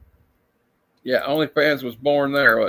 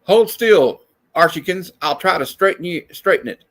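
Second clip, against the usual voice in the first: playful dub voice; 3 semitones higher than usual. Acted. Dubbing cartoon panel in voices.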